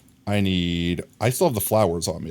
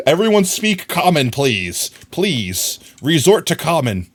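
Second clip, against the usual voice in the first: mock pleading; 3 semitones higher, 3 dB louder than usual. Real, not acted. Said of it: "pleading with chat".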